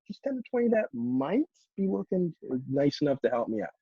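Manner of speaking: emphasize "might" with a held beat; stress on might. Shown as a demonstration. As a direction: lean on the word "might". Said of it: "make sure you're emphasizing the words that are bolded".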